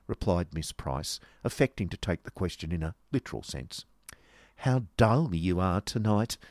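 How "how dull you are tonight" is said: slow, mildly sneering jibe. Acted. Miss Squeers jibes at her friend, sneering. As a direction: draw it out with disdain. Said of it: "sneered Miss Squeers".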